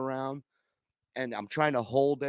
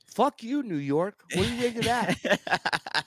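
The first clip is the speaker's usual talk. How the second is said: high, loud furious rant at the airport; angry outburst; 9 semitones higher, 4 dB louder than usual. Retold or imitated. Traveler cursing out JFK airport, high loud mock rage. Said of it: "And I'm like".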